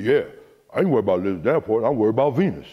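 imitating her father. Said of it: "That's how he talks".

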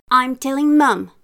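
high, loud tattletale threat; threatening. A narrator's reading. Little sister threatens her brother, tattling call. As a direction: threaten to tell on him. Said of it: "she threatened her brother".

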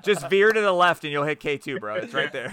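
loud joking bro voice; frat bro. Pretend. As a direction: hype it up like a bro. Joking geography advice, bro voice.

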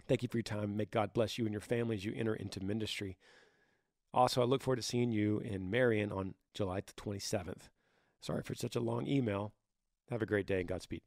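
hoarse, raspy reading voice. Real, not acted. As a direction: read through a raspy throat. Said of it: "Sorry for my raspy voice here".

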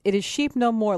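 "Sheep" said distinctly with stress; clarifying the title. Shown as a demonstration. Producer corrects callers on book title, "Sheep" stressed clearly. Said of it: "what I've been saying to folks".

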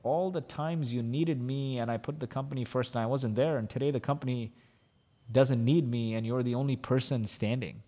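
hushed, heartfelt apology to his wife; tearful apology. Retold or imitated. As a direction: softly tell her you're sorry, close to tears. Apology to wife after crying.

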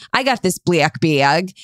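slow, light Cleveland accent demo. Shown as a demonstration. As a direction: drag out the Cleveland vowels, gently. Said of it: "a Cleveland accent is saying".

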